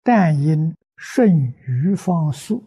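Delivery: measured scripture recitation in short phrases with pauses; sutra recitation. Acted. Recites a Buddhist sutra throughout. (庄重诵经，逐句停顿)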